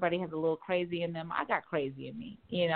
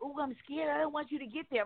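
mock scared man; 8 semitones higher than usual.

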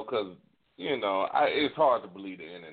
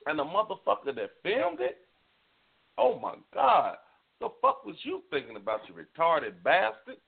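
outraged; 5 semitones higher than usual. Real, not acted. Outraged at filmer.

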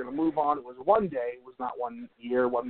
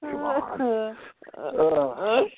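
exasperated; 8 semitones higher, much slower than usual. Real, not acted. Groaning at his own bad joke.

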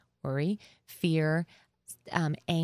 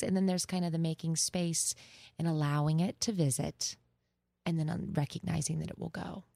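therapist voice. Real, not acted. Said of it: "the best therapist voice".

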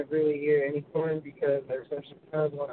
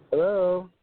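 calling out; 4 semitones higher, 5 dB quieter, slower than usual. Real, not acted. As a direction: call out to check the line. Calling into a dead line.

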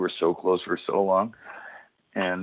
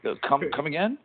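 a rambling pro wrestler talking moves, pitched up; Jeff Hardy impression; 6 semitones higher than usual. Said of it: "that's how he talks".

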